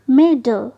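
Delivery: मिडल sounded out as mid, then dle; split double consonant. Shown as a demonstration. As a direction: stress and separate both syllables of मिडल. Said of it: "first syllable के साथ". (मिडल को मिड-डल तोड़कर बोलें)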